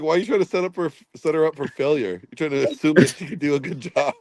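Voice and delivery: talking while chewing; mouth full. Real, not acted. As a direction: talk round a mouthful of cereal. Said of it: "What are you eating, Abe?".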